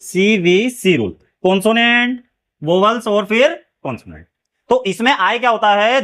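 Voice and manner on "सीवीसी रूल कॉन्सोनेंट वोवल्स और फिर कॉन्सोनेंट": teacher's slow repeat-after-me; slow drawn-out naming. Shown as a demonstration. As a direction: stretch CVC rule slowly so it sticks. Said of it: "क्या कहते हैं?".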